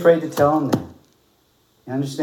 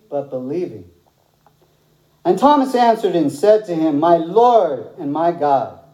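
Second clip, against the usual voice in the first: scripture reading. Acted. Reads the gospel passage aloud.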